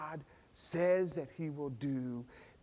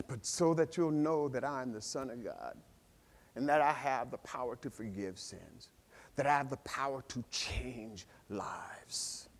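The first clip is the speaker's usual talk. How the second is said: soft voice of Jesus; 5 semitones lower, 7 dB quieter than usual. Retold or imitated.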